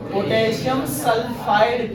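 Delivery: पोटेशियम सल्फाइड slowly, सल्फाइड ending in a voiced D; ending in a D sound. Shown as a demonstration. Teacher repeating the compound name for students, slow with final D. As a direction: spell out सल्फाइड by ear, slow "sul-faid". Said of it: "पीएचआईडी बनाना है".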